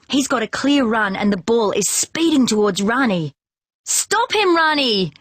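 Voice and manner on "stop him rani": much higher yell to a teammate; urgent yell. A narrator's reading. Jing yells to goalkeeper Rani during the play. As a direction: yell for Rani to stop the runner. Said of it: "I yell".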